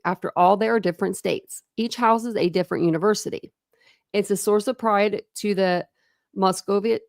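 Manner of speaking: steady, projected read-aloud voice. A narrator's reading. Reading a book to listeners, steady read-aloud narration.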